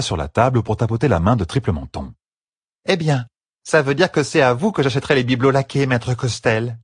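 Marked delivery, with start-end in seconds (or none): 2.9-6.8 higher, slurring tipsy woman; slurred drunk voice. Acted. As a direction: sound a little drunk and slurry. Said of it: "dit-elle d'une voix pâteuse".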